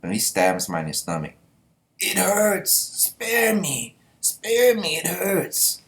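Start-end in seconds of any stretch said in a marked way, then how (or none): 2.0-5.8 much higher mock pleading; hammed-up whimpering plea, pitched up high; begging victim. Voicing stabbed man begging.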